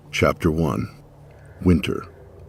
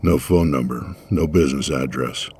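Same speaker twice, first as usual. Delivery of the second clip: flat cop; 3 semitones lower than usual. Acted. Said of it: "said flatly".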